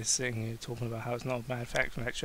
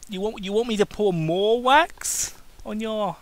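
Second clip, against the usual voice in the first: higher mocking voice with a cruel grin; evil taunt; 7 semitones higher, 4 dB louder than usual. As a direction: sneer the question at him. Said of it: "Cain taunted with an evil smile".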